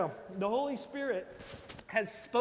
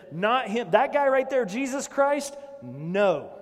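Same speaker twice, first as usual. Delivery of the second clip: crowd refusing; 3 semitones higher, 5 dB louder than usual. Retold or imitated. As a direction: shout down the accused man, half-acted. Crowd rejecting Jesus, acted out.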